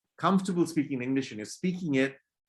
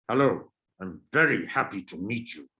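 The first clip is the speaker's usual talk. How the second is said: irritated, put-out greeting; annoyed; 3 semitones lower than usual. Shown as a demonstration. Teacher showing students an annoyed greeting. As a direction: greet them as if they're a nuisance. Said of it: "I'm conveying more annoyance".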